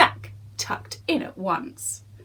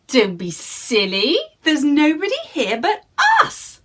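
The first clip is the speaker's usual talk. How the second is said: higher, louder mock scolding; scolding giantess; 6 semitones higher, 4 dB louder than usual. Giantess scolding the giant, higher and louder. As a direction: tell him off like a bossy wife. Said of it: "the giantess scolded".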